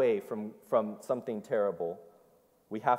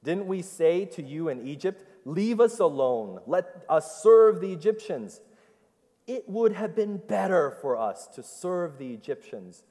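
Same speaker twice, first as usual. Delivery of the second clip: rising, louder mock complaint; sarcastic; 6 semitones higher, 4 dB louder than usual. Preacher voicing Israel sarcastically complaining to Moses, rising. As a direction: twist the knife with sarcasm.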